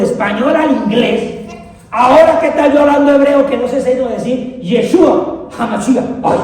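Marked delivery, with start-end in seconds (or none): none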